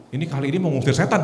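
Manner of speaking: joking while laughing; laughing aside. Retold or imitated. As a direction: say it through a laugh, a bit fast. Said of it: "Waduh, saya bilang". (sambil tertawa)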